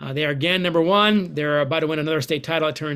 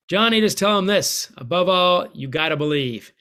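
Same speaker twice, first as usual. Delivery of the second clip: put-on flat Minnesota accent; 3 semitones higher than usual. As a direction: call out Johnny in a flat Minnesota accent, Herb Brooks style. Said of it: "with his flat, uh, Minnesota accent".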